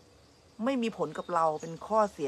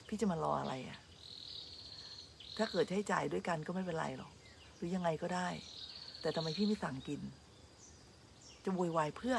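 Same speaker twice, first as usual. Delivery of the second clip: inner thought; 8 dB quieter than usual. Retold or imitated. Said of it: "คิดในใจนะ".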